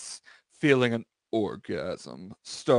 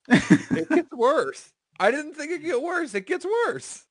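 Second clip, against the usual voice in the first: mock dramatic warning; 3 dB louder than usual. Real, not acted. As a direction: tease them that it gets worse. Reader warns the friends.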